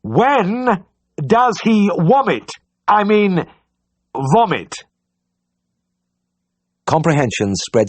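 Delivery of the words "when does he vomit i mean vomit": slow, high bawl into his ear. A narrator's reading. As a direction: roar every word to the deaf man. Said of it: "and bawled".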